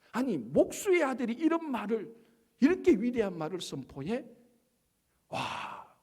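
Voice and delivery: mildly sarcastic disbelief, imitating doubters; mock amazement. Townspeople scoffing at the carpenter's son, sarcastic. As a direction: act out scoffers feigning awe, ending on a hushed "wow". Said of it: "존경한다 이게 아니고 비꼬기 시작합니다".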